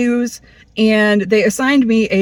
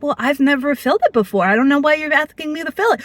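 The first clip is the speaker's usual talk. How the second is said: mock doctor; 4 semitones higher, faster than usual. Doctor voiced in story.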